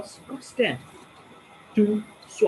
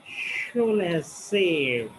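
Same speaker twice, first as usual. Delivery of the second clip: slow split word; much slower than usual. Shown as a demonstration. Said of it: "speaking in a split manner".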